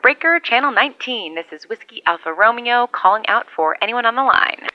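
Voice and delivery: calling out over the CB; over a radio. Acted. CB radio call sign-on.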